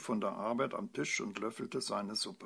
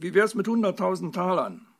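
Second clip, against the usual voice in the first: high, loud, desperate offer; pleading; 7 semitones higher, 10 dB louder than usual. A narrator's reading. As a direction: push the offer imploringly. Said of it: "sagte die Fee händeringend".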